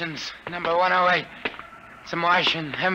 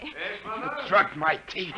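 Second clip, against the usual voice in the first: groggy realization; 5 dB quieter, much slower than usual. Acted. Drugged man realizing.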